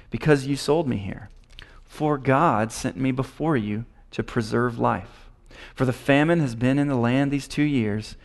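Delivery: measured, deliberate scripture reading. Acted. Preacher reads Joseph comforting his brothers, deliberate scripture reading. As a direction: read the passage out phrase by phrase.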